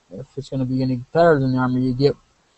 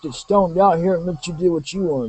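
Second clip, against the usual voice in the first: put-on sidekick voice; 5 semitones higher than usual. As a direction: play the laid-back sidekick, pitched way up. Stoner sidekick character replies.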